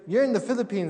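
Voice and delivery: a doctor insisting he must be rich and educated; insistent doctor. Retold or imitated. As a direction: press the point hard.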